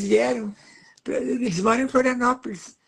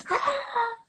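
put-on much higher squeal of a baby seeing her photo; baby's delighted squeal; 12 semitones higher, 3 dB quieter than usual. Grandmother imitating the toddler's happy cry at the book. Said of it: "ela dizia assim".

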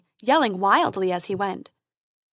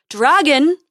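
loud, higher heroic shout; calling out; 5 semitones higher, 10 dB louder than usual. A narrator's reading. Prince summons the dragon from the darkness, calling loudly. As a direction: call the beast out boldly. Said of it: "he called again".

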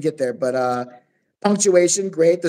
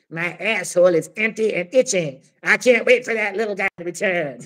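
very slow slimy snail voice; 2 semitones higher than usual. Acted. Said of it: "said the slug monster underneath".

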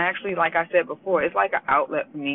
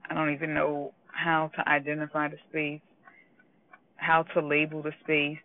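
emotional; 3 dB quieter than usual. Real, not acted. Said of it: "I'm getting a little emotional right now".

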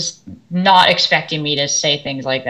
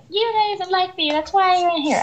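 much higher, softer mock pupil voice; whiny student; 13 semitones higher, 3 dB quieter than usual. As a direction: imitate a sulky student accusing the teacher. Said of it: "And she's like".

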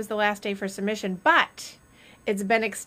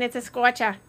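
Boston accent; 2 semitones higher than usual. Shown as a demonstration. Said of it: "As they say in Boston".

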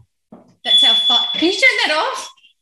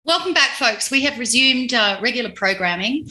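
mock announcer. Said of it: "resumes show".

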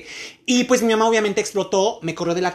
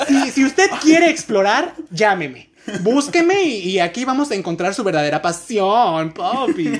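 anuncio seductor en broma; slower than usual. Pretend.

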